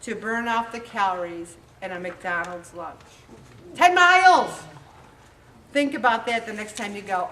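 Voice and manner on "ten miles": loud, high exclamation; exclaim. Real, not acted. Speaker stressing how far the walk is, loud exclamation. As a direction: hit it like a shock. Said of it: "exclaiming the figure".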